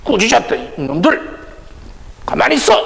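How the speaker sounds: short, stern scolding; acted rebuke. Jesus rebukes wind and waves, stern scolding. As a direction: scold them into stillness. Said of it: "꾸짖으셨다는 거예요".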